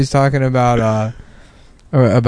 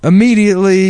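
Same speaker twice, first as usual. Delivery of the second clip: Steve Harvey impression; 7 semitones higher than usual.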